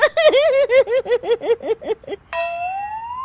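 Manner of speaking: rising high cackling laugh; long high laughter. Acted. Daughter-in-law on laughing pill, rising high laugh. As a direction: let a long giggle climb. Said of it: "हंसने वाली दवा".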